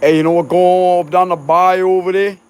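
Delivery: imitating a thick Cajun elder; mock Cajun accent. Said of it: "Like that, they sound like that".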